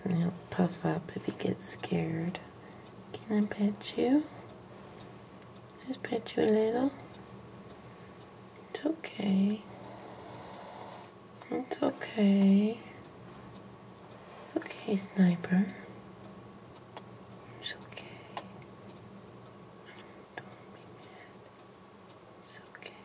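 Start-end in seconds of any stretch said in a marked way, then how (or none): 3.1-15.7 soothing pet talk. Real, not acted. Soothing a wary lizard. 17.6-18.4 whispered soothing. Real, not acted. Calming a wary lizard. 20.3-22.9 barely audible calming whisper; hushed reassurance to a pet; soothing whisper. Real, not acted. Calming a wary lizard.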